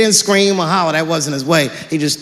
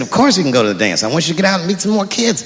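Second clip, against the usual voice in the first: eager dad; faster than usual. Retold or imitated. Dad voiced.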